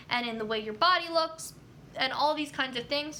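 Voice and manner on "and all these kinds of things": a burp in the voice. Real, not acted. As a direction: talk through a small burp. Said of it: "Excuse me, I'm burping again".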